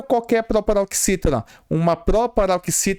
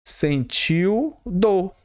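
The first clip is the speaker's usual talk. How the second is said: "sentiu dor" drawn out very slowly; slow emphasis; much slower than usual. Shown as a demonstration. Teacher stressing the example for the class, slowly. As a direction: stretch "sentiu dor" word by word. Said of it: "Vamos supor um exemplo".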